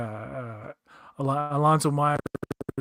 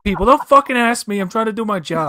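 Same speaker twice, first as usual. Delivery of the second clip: higher, louder, fast mock rant of a busy doctor; mock annoyed doctor; 5 semitones higher, 5 dB louder than usual. Mocking the hologram doctor who snaps at his captain, fast and loud. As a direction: sneer it like a doctor too busy for questions. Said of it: "And he's basically".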